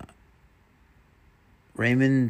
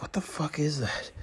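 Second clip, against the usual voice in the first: whispered retold reaction; 6 semitones higher, 6 dB quieter than usual. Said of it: "and I'm like".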